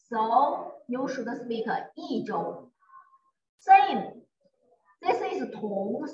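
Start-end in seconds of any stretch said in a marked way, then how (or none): 2.0-2.7 "E" falling, then "Zhou" held level; tone change demo. Shown as a demonstration. Teacher modelling before first tone, falling "E" in "E Zhou". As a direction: drop on "E", keep "Zhou" steady. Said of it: "Before first tone, we use E".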